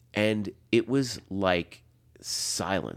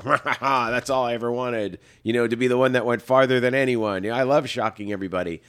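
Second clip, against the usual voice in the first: cocky younger self; 3 semitones higher, 5 dB louder than usual. Retold or imitated. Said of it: "the thirty-year-old version of myself".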